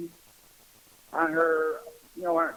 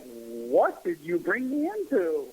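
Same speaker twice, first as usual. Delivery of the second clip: drawn-out, slow incredulous question; mock disbelief; slower than usual. New boyfriend to his girlfriend at a family fight, mock disbelief. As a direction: stretch it out in mild dismay.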